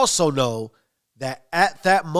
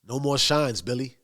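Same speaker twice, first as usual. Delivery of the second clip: understated, even warning; calm. Retold or imitated. Tommy replying to Billy Bats about shines, rather calmly. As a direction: keep it level, softening on the name. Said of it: "and rather calmly".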